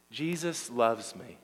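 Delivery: slow, deliberate declaration to be repeated; slow affirmation. Shown as a demonstration. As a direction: lead the congregation word by word. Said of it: "would you just say".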